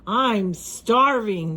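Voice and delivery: slow, drawn-out hungry monster; giant pig shout. Acted. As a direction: groan it like a starving beast. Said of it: "the giant pig shouted".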